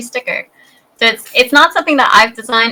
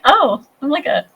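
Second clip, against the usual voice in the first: higher, playful mock bragging; mock celebrity boast; 5 semitones higher than usual. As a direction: play the smug star, tongue in cheek. Mock boast about being swamped.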